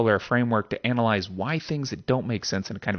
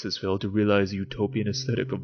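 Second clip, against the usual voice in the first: measured, weighty quotation reading; dramatic reading. Acted. Host quoting the essay's ending to listeners, grave reading. Reads second Baudrillard passage.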